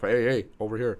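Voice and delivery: mock call for security. Acts out calling security over.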